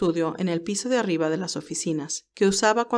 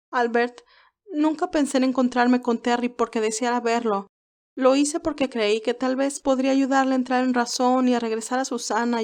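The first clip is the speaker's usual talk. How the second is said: a lightly higher voice for Candy, earnest and shaken; young woman Candy, troubled; 3 semitones higher than usual. Acted. Candy to Albert, explaining why she got in the car, earnest and shaken. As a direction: tell him how it happened, still confused.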